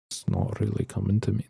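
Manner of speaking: Aussie attempt sliding into Irish; accidental Irish accent. Shown as a demonstration. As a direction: try for Australian and land on Irish. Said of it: "That's Irish".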